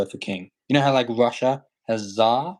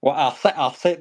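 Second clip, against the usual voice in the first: higher-pitched mock Southern cartoon bluster; Foghorn Leghorn; 4 semitones higher, 4 dB louder than usual. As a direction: playfully imitate a blustering Southern cartoon rooster. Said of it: "that's Fargo and Leghorn".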